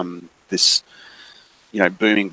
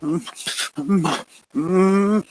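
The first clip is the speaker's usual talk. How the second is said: frightened whimper; 11 semitones higher, 5 dB quieter, much slower than usual. Acted. Scared little girl whimpers.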